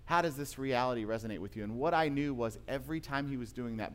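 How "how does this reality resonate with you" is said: said with love. Retold or imitated. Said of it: "because of the way that he was saying it".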